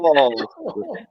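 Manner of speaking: "Master" pitched high with a hugely stretched posh A; exaggerated posh A. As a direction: lift and stretch "Master" like a snooty butler. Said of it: "He exaggerates the A so much".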